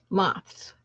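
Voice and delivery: whispered word. Real, not acted. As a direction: breathe the word quietly. Muttering while searching.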